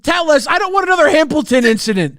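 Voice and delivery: mock demand. Urging the streamer to spill the story, with a pushy call. Demanding she reveal gossip.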